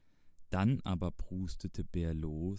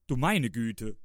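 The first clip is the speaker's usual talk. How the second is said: higher, louder gasp of surprise; astonished exclamation; 5 semitones higher, 5 dB louder than usual. A narrator's reading. Friends peering under the bed, exclaiming in surprise.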